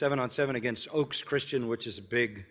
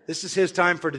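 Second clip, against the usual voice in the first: laughing; 5 semitones higher, 5 dB louder than usual. Retold or imitated. Laughing while retelling his reply.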